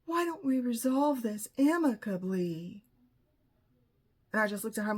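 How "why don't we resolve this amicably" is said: a hint of a prissy therapist; lightly mocked therapist. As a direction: lightly imitate a placating therapist. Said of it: "And she said".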